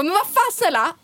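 high-pitched indignant protest; retold pissed-off. Telling how she snapped at the friend who refused her a bed, high retold outrage. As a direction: re-enact being furious with a friend, voice shooting up. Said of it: "Jag blev skitsur".

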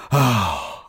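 long unimpressed parental sigh; weary sigh. Retold or imitated. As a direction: sigh like a put-upon parent. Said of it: "I'd always get this".

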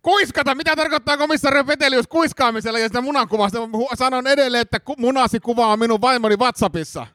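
very high, indignant outburst; epäilty, kiihtynyt. Acted. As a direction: announce it for the hidden recorder, hammed-up. Suspect loudly exposes inspector's plan. (kiihtynyt, paljastava)

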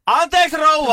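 very high, loud call to the hard of hearing; imitated shout. Carer leaning closer to a deaf old lady, shouting. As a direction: shout it high and drawn out, as re-enactment. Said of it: "meni vähän lähemmäs ja huusi".

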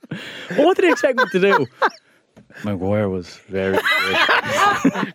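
laughing through a slow line. Real, not acted. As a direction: giggle through it high and slow. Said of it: "Go on, yeah, just do this for the whole".

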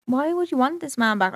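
retold disbelief, pitch lifted then falling; incredulous. Woman questioning the other girl about taking him back, incredulous.

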